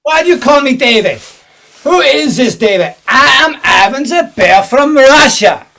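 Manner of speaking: put-on hammy Russian villain accent; thick put-on Russian accent; fake Russian accent. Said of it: "You're not a Russian".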